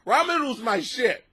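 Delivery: worked up about noodles; emotional. Real, not acted. Man defending his favourite food to the audience, emotional. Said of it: "I'm actually getting emotional".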